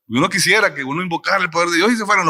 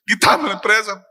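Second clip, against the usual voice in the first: a milder whiny plea, slightly raised; victim tone; 4 semitones higher than usual. Retold or imitated. Preacher repeats his victim's plea to God, mildly whiny. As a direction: sulk it like a wronged child. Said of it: "O sea, una víctima".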